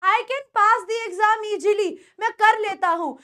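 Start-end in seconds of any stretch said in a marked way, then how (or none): 0.0-1.9 easily said "ee-jee-lee" in a slow sentence; slow example with "eejily" for easily; mistaken easily. Retold or imitated. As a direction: imitate a learner putting "j" in easily. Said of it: "ईजीली बोलते ही तुम्हारी English खराब".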